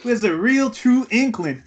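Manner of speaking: cartoony Southern sleuth; Southern detective drawl. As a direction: tease with a put-on Southern accent. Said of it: "He's a southern detective".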